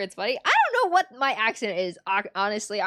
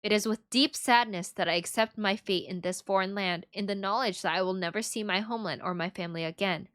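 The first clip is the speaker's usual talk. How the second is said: solemn will reading; 5 semitones lower, 3 dB quieter than usual. Acted. Reads the will aloud in character.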